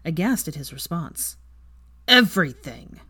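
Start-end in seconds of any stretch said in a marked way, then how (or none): 2.1-3.0 evasive. Acted. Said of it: "Weasley answered evasively".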